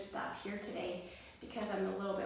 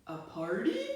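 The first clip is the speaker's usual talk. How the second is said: grinning cry; 5 dB louder than usual. Acted. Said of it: "cried Bear with a grin".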